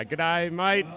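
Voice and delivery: lightly voiced Australian g'day; a hint of an Aussie greeting; Australian accent. Commentator greeting in Australian accent. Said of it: "don't forget your Australian accent, mate".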